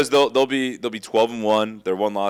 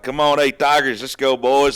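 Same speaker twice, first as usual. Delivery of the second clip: mock Southern pep talk, raised and louder; fake Southern accent; 3 semitones higher, 5 dB louder than usual. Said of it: "he got the fake Southern accent".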